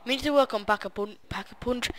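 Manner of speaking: a touch of the Syndicate voice, quick; Syndicate impression. Gamer slips into his Syndicate impression, light mimicry. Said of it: "because of my Syndicate impression".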